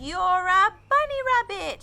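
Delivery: loud, high shout of discovery; a gleeful cry of discovery; triumphant shout. Acted. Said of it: "shouted the giraffe and the lion together".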